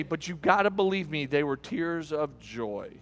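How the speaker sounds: low, soft retold excuse; subdued mock sincerity; sheepish groom. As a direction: play the groom meekly explaining himself, slowing down.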